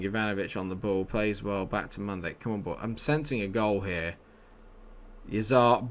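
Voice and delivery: ordinary delivery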